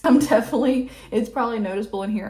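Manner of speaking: short of breath, pausing for air. Real, not acted. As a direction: talk while winded and breathless. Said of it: "I'm kind of out of breath".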